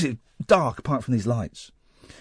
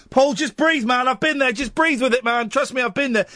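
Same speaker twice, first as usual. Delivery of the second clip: urgent reassurance; 8 semitones higher than usual. Retold or imitated. Re-enacts urging panicking friend to breathe.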